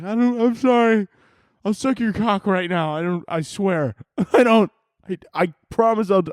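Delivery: high, panicky mock begging; hammed-up terrified begging; mock pleading. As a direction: plead for your life in a hammed-up squeal. Imagined begging at gunpoint.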